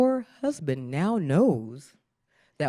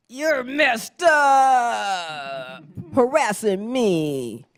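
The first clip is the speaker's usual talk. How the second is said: shouted thought; 7 semitones higher, 4 dB louder, much slower than usual. Retold or imitated.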